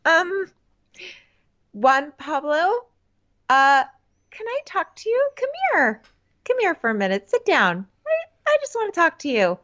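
high, sugary mock girlfriend; sweet but mad. Podcaster as angry girlfriend to boyfriend, falsely sweet and high. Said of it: "sounding even sweeter because she's mad".

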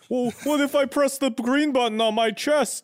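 high nervous Vader voice. Acted. Voicing worried Vader.

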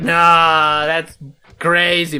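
amazed disbelief. Retold or imitated. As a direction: let the memory of being blown away spill out. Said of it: "it was like".

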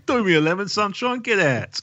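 lightly put-on South London accent. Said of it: "they'd say it in a South London accent too".

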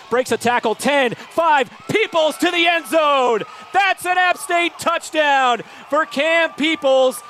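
rising excited play-by-play shout; touchdown call. Real, not acted. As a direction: call the score as it happens. Touchdown run, radio call.

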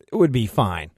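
grudging acceptance with falling FINE; a touch of mock reluctance; faint disdain. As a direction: accept as if you'd prefer something else. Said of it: "a note of disdain in his voice".

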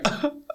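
soft, high little whimpers; quick mock sobs, kept small; demonstrated crying. Shown as a demonstration. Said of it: "Crying is like".

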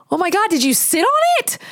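horrified question. Retold or imitated. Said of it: "And I was like".

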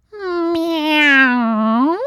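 high, whiny little kitten meow; a pathetic, whiny cat cry. A narrator's reading. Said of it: "a pathetic sort of whiny meow".

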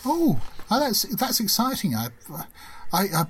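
high eager stutter; excited stammering woman. Acted. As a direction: gush nervously over a stranger. GM voices the rooftop woman.

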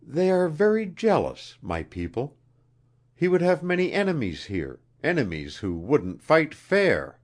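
high-pitched, earnest queen; anxious queen. A narrator's reading. Queen explaining what she did with him, anxious.

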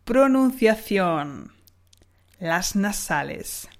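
slow, drawn-out title; slow announcing. Shown as a demonstration. Teacher announcing the pronunciation challenge, slow. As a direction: announce the section slowly. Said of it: "section title".

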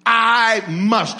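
"I must" loud and deliberate; stressed key words. Shown as a demonstration. Preacher repeating the first two words, loud emphasis. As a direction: hit "I" and "must" as two separate beats. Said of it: "First two words".

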